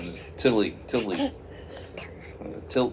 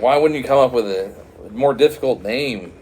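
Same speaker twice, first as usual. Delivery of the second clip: louder, exasperated retort; mock exasperation; 6 dB louder than usual. Guesser chiding the curser over an easy name, exasperated. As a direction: chide him in playful disbelief.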